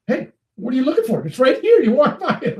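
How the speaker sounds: mock calling out. Calling out to passers-by, laughing.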